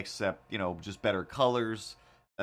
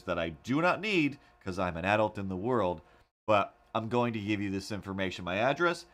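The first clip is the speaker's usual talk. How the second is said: sarcastic mock address; 3 semitones higher than usual.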